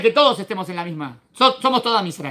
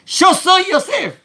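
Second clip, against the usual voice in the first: Yosef revealing himself, very slow, higher and louder; dramatic reveal as Yosef; 11 semitones higher, 5 dB louder, much slower than usual. Acted. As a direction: unveil it slowly like a thunderclap. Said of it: "imagínense la escena". (Yosef se revela, lento y fuerte)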